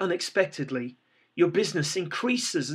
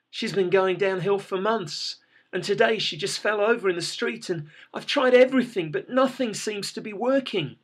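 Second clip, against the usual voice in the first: desperate; 5 semitones higher than usual. Acted. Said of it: "you reply".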